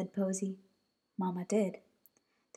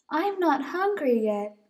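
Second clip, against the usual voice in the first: little bunny; 6 semitones higher, 5 dB louder than usual. Acted. Bunny Posy.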